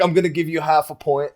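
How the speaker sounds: Ethos. Acted. Contestant mimicking the host handing out points, teasing impression. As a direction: mimic the host with the pitch pushed up. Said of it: "your Ethos impression is".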